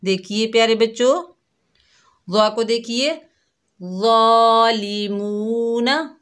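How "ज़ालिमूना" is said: ज़ालिमूना drawn out slowly with a full heavy ज़ा; soft but heavy recitation. Shown as a demonstration. Teacher reciting a Quran word for children. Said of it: "लेकिन मोटा पढ़ रहे हैं".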